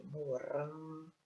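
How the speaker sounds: "morango" stretched on "ran"; stress on RAN. Shown as a demonstration. Teacher repeating for pupils, "morango" lengthened on "ran". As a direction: hold the middle syllable of "morango". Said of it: "a sílaba mais forte".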